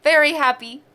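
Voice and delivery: talking while sipping a drink; words around a sip; sipping through a straw. Real, not acted. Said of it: "Sorry, I was drinking".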